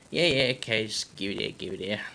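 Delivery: peed-off son in a put-on accent; irritated, accented grumble; annoyed son. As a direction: grudgingly take over after being woken. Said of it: "really peed off that he was woken up".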